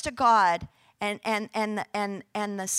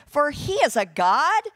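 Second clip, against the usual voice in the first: mocking. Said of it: "Elijah mocked them".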